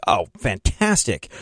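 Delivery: slow, drawn-out FANTASTIC; mild, savoring praise; dad's delight. Retold or imitated. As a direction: stretch it out in understated approval. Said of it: "if you're my dad, fine means".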